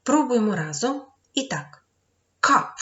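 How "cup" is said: cup said loud and high with a short a sound; teacher model word. Shown as a demonstration. Teacher modelling English for pupils, crisp and loud. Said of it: "Буква Ю має звук А".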